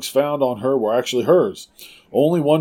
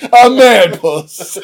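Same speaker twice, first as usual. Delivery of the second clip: mock deadpan; 8 semitones higher, 7 dB louder, much slower than usual. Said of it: "and you're like".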